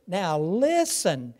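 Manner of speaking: "Now listen." slow, stress on "listen", falling at the end; two weighty words, drawn out; emphatic now listen. Shown as a demonstration. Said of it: "those two emphatic words".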